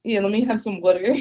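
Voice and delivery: "water" said the South Jersey way with a laugh. Shown as a demonstration. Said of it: "That's how we say water".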